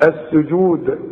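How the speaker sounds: «السجود» بنبرة مرتدة على الدال; اقفل «السجود» بدال مقلقلة; قلقلة الدال. Shown as a demonstration. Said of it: "لازم نقلقلها". (قلقل الدال في آخر «السجود»)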